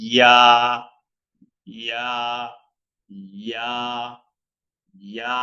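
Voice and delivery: ইয়া short with tongue at palate; Arabic ya. Shown as a demonstration. Teacher drills Arabic letter, short ইয়া. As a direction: clip ইয়া, one beat. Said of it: "পড়তে হবে এইভাবে".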